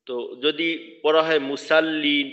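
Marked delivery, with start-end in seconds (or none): 1.5-2.3 মুসাল্লিন with a thin seen and open "sa"; মুসাল্লিন, light s as a wrong example; sad turned seen. Shown as a demonstration. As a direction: say মুসাল্লিন without thickening the s. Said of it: "একেবারে পরিপূর্ণ সিনই হয়ে গেল".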